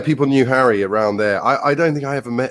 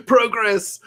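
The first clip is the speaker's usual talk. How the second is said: sarcastic laughing word; 12 semitones higher than usual. Acted. Sarcastic after mock cheer.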